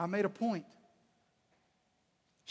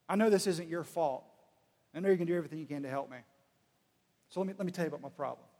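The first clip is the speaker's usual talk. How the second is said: gently lowered, easygoing phone manner; kind and respectful; 3 semitones lower, faster than usual. Acted. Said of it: "He treats them with dignity".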